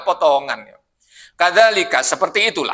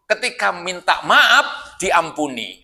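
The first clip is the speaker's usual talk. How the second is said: slow emphasis; 3 semitones higher, much slower than usual. Shown as a demonstration. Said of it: "Nah, ini maksudnya".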